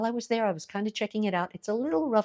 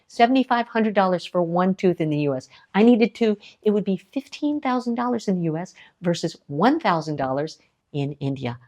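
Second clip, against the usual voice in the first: louder and louder, hammering each price; indignant emphasis; 8 dB louder than usual. Real, not acted. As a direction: build to an outraged peak on I needed two. Outraged US price comparison.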